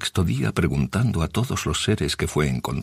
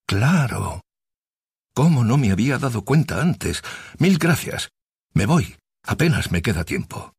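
excited; 5 semitones higher than usual. Acted. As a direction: burst out with eager relief. Sid's sudden realization, rushing off.

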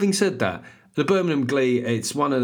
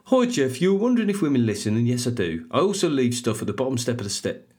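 put-on Brummie accent. Reading a listener's review as her, Brummie accent. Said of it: "it's gonna be a Brummie accent".

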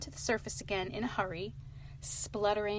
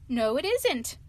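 a mild indignant outcry, louder; 4 semitones higher, 7 dB louder, slower than usual. Acted. Rat indignantly contradicting Mole about the ducks. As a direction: protest with a touch of indignation. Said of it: "cried the rat indignantly".

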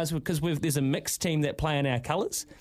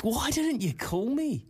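slow whiny complaint; 7 semitones higher, slower than usual. Retold or imitated. Retold complaint to teammates.

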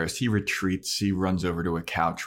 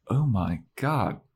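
slow, higher mock awe; retold astonishment, drawn out; lightly acted wonder at being understood; amazed William; 4 semitones higher, slower than usual. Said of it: "He's like".

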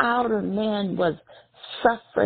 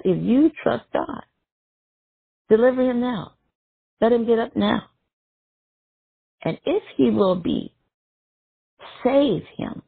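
mocking onlooker calling up; mock taunt; 5 semitones higher than usual. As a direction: sneer like the crowd at the cross. Mockers taunting Jesus on cross.

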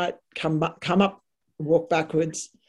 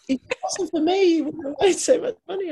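high, quick Southern boss; Southern US accent; 13 semitones higher, faster than usual. Retold or imitated. Boss claims credit for the sale, in Southern accent. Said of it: "you are so good at the accent".

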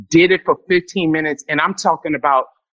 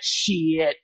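muttered curse; 7 dB quieter than usual. Acted. Muttered swear before building up.

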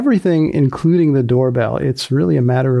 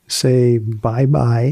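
slow coaxing; much slower than usual. Real, not acted. Coaxing baby to wave.

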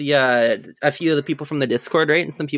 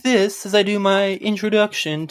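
put-on Canadian accent; 5 semitones higher than usual. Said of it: "now I'm back to talking like this".

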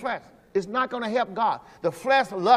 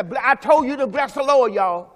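bossy command; 4 semitones higher, 4 dB louder than usual. Retold or imitated. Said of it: "I can't stand here and say".

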